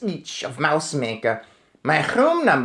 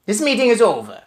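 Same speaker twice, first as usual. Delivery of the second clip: raised witch shout; 8 semitones higher, 4 dB louder, faster than usual. Acted. Witch queen dismissing the meeting, shouting. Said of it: "she shouted".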